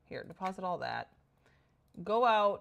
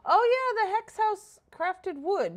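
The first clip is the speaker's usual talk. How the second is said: excited; 13 semitones higher, 8 dB louder, slower than usual. Real, not acted. Sudden idea while building.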